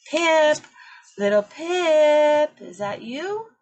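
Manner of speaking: loud, high searching call. Acted. Parents call out for their lost chick, loud and high. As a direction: call across the ice for her.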